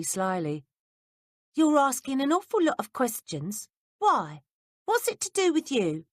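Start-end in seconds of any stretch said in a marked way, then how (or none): 1.5-6.0 a hint of wary lad, higher; lightly voiced boy, suspicious. A narrator's reading. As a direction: needle her like a suspicious boy. Peter suspicious.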